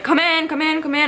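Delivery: high mock yell, no real volume; retold yell. Patient calling to EMTs at the door, mild mock yell. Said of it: "I'm, like, screaming".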